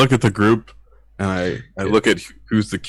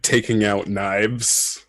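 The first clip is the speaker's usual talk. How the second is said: normal talking voice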